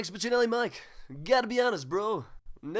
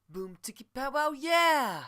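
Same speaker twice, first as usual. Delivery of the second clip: slow, higher hype yell; outro shout; 5 semitones higher, slower than usual. Acted. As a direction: shout the show out big.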